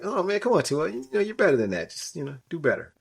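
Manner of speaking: high, exasperated mock plea, easing down; retold fan pleading. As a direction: imitate let-down fans coaxing a player. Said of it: "but everybody's like".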